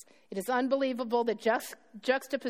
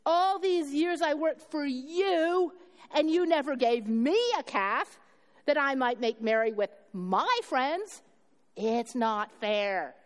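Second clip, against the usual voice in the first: slow, aggrieved complaint with weight on "you never"; resentful elder son; 3 semitones higher, slower than usual. Acted. Preacher reading the elder son's complaint to his father, slow and resentful. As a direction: whine it out like a wronged older brother. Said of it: "the way I read the text with this emphasis".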